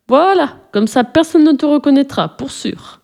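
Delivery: proud of his handiwork, ending hushed; satisfied. A narrator's reading. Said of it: "approuva Tupka d'un air satisfait". (ton satisfait, aigu, finissant en souffle)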